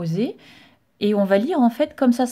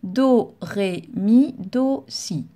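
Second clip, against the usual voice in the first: fluent reading; much slower than usual. Shown as a demonstration. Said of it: "Si on fait ça, c'est excellent".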